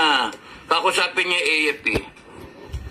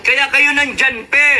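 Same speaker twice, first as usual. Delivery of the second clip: laughing jab; 8 semitones higher, 4 dB louder, slower than usual. Real, not acted.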